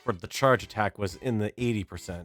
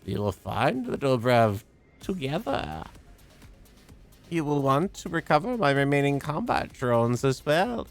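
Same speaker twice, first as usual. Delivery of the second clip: a hint of an eerie computer, rising to urgent; lightly voiced solemn machine; creepy AI voice; 4 semitones higher, 3 dB louder than usual. Reads AI character's lines.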